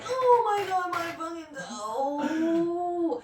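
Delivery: high, loud, drawn-out cry of pain; pained yell. Retold or imitated. Mom yells in pain after falling onto the bed. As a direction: wail it through the toe pain. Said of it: "I'm like".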